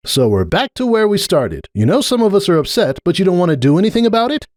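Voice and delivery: a lightly voiced earnest unicorn pleading her case; Starlight. A narrator's reading. Starlight pressing her point with Cupcake, earnest.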